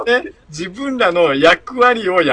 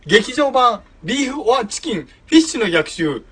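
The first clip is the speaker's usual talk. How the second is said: movie trailer voice; 5 semitones higher than usual. Acted. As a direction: sell the film title like a trailer. (映画予告のナレーション)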